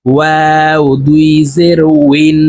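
উইন with rounded lips; ওয়াও said with lips rounded; rounded-lip waw. Shown as a demonstration. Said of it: "ঠোঁট গোল করে উচ্চারণ করতে হবে".

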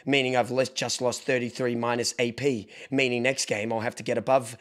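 low, quiet, measured monotone; Fruity. Retold or imitated. Streamer imitating a fellow gamer taking a loss, calm and analytical. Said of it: "Whereas Fruity does this".

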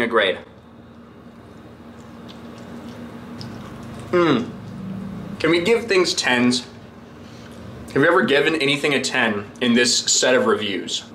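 chewing while talking; muffled food-filled speech; mouth full of pizza. Real, not acted. Seen 3: Bites pizza at 0.2, keeps chewing visibly while speaking through 6.7.

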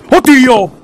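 high, loud shriek of fright; terrified scream. Real, not acted. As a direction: scream in sudden terror. Jump scare in game.

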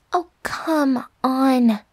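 drawn-out, exasperated groan of words. Acted. Coaxing a reluctant roommate to cuddle, exasperated. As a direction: stretch it out, fed up.

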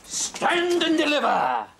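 a slow, commanding highwayman's challenge; a hint of a dashing highwayman; highwayman's call. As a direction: halt them like a masked robber. Highwayman holds up the pair.

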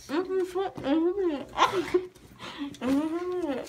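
talking through cotton in mouth; muffled words round cotton; mouth full. Real, not acted. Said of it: "I have a bunch of cotton in my mouth".

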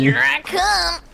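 slow, high shout; drawn-out seeker's call. Acted. Hide and seek seeker calling out.

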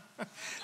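soft, breathy mock chuckle; imitated congregation laughter. Preacher mimicking how the congregation reacted, soft mock chuckle. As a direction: imitate a crowd's quiet laughter. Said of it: "And the congregation went".

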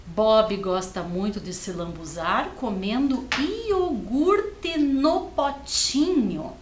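put-on slow, deliberate read for young kids; slow reading aloud. Teacher rereads the sentence slowly for the class. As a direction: read it word by word so they can follow.

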